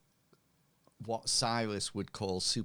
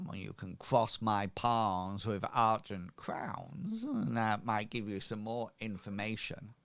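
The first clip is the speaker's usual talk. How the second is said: wheedling shopkeeper. Acted. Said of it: "rather rotund, robust, um, lady".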